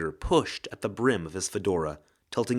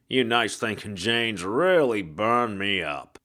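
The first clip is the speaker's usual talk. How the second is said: hard-boiled ghost. Acted. Ghost detective voice.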